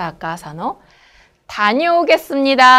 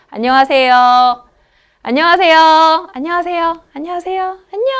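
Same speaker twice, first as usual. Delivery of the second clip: natural Korean greeting; 5 semitones higher, much faster than usual. Shown as a demonstration. Teacher demonstrating natural greetings, rising and fading. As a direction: climb the pitch each time, fade the level. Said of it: "안녕하세요 es más natural".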